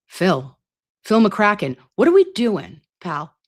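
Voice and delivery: teasing, playful telling-off of a viewer; mock scolding. Real, not acted. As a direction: scold a friend who made a rude joke.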